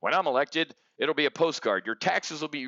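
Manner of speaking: hint of a mocked campaign speech; Trump campaign promise. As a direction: lightly mimic a politician's stump promise. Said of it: "with Trump with the whole".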